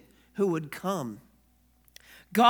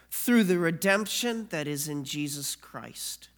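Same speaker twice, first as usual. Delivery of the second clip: solemn scripture reading. Acted. Reads Romans aloud.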